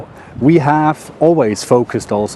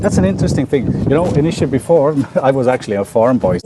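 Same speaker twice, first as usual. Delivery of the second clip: out of breath. Real, not acted. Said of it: "You walk too fast for me, I'm out of breath".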